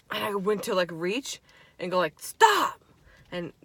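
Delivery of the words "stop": high sharp stop. Retold or imitated. Retold shout at dolls.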